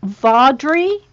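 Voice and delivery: Vaudrey said VAWD-ree with a questioning rise; trying a pronunciation. Real, not acted. Host checking a name with the author, trying out VAWD-ree. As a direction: sound out Vaudrey tentatively, ending in -ree. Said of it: "let's see how we pronounce this".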